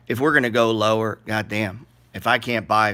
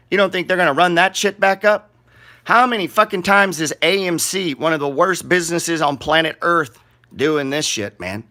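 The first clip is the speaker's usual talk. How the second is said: heated rant; 4 semitones higher than usual. Real, not acted. Vlogger ranting at viewers about meme stocks, heated. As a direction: push the disbelief hard.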